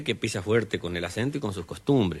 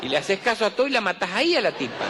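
laughing aside; 10 semitones higher, faster than usual. Real, not acted. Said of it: "laughing comment".

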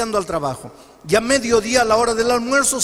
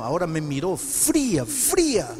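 cold and hushed; 6 semitones lower, 6 dB quieter than usual. Retold or imitated. Atheist recalls his wife's cold look.

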